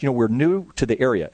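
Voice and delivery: polite Southern lady's welcome; gracious Southern accent, lightly done. Retold or imitated. Southern mom tells the pastor they're new, in a lightly done Southern accent. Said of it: "beautiful Southern accent".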